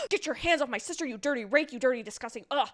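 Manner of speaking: mildly heightened indignant scolding; mock-disgusted telling-off; acted outrage. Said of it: "And he is pissed".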